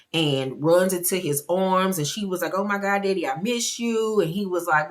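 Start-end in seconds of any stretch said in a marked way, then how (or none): 2.6-4.2 higher-pitched, mock-delighted little girl; lightly voiced girl happy to see her daddy; excited child greeting.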